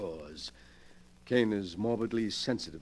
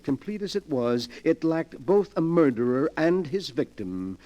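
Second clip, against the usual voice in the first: rising gloat; 7 semitones higher, 7 dB louder than usual. Acted. Gloating over his collection.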